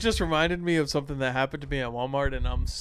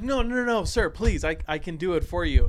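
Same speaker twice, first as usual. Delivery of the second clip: higher, pleading clerk's voice; begging clerk; 3 semitones higher, 4 dB louder than usual. Retold or imitated. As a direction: mock-desperate plea to stay. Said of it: "She's like".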